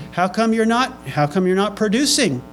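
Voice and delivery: high-pitched challenge, acted out; mock accusing question. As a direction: demand an answer in mock complaint. Acted challenge to God on stand.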